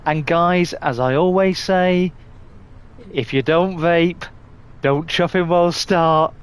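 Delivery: lightly imitated video host going live; streamer's intro impression. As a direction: do a fellow streamer's welcome patter. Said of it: "you've gone live and you're about to introduce your".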